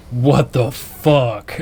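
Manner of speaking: slow, stunned what the fuck; a sleepy friend in slow disbelief; whispered-feeling slow shock; drawn-out disbelief. Retold or imitated. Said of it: "he goes".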